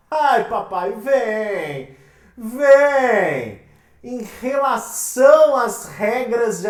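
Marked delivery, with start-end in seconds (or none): 0.1-3.6 loud "Vem!" like calling someone over; playful call. Real, not acted. Teacher summoning the next exam question, loud and playful.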